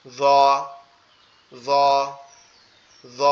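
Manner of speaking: জ said with tongue tip pressed to the front teeth; slow, careful demo of জ; Arabic letter jeem. Shown as a demonstration. Teacher repeats জ for children to copy. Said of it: "লেগে উচ্চারিত হবে".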